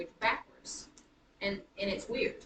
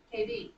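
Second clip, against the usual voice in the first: "K B" pitched up, weight on B; short K, stressed B in "K B"; iambic stress; 11 semitones higher than usual. Shown as a demonstration. Teacher wonders if the name works, stressing B in "K B". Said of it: "gonna do an iambic pattern".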